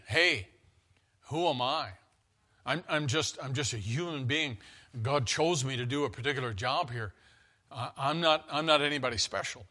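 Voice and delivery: quiet, humble Moses, speaking gently; humble and soft. Retold or imitated. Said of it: "That's the way the Hebrew is written".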